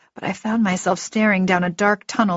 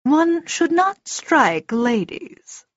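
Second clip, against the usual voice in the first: calm, high and slow elf voice; slow, composed otherworldly rebuke; Etrie; 8 semitones higher, much slower than usual. A narrator's reading. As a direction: reprove with measured, formal composure. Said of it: "I recognized Mister Etrie's voice".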